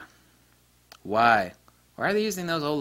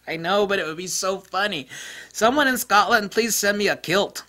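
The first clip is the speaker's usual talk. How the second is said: excited plea; 8 semitones higher, 4 dB louder than usual. Retold or imitated. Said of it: "I'm like".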